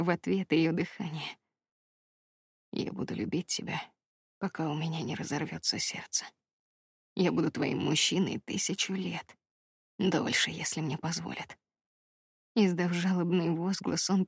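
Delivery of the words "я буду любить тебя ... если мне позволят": low, soft promise; hushed devoted man's vow, much softer; Brandon's vow. A narrator's reading. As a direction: vow it quietly to her.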